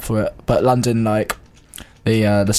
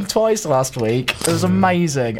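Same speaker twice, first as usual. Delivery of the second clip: excited; 6 semitones higher than usual. Real, not acted. Gushing about a singer's gig.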